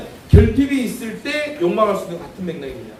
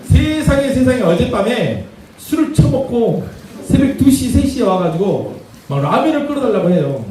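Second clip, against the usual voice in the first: exasperated mom rant; 5 semitones higher than usual. Acted. Angry mom complains about the dad.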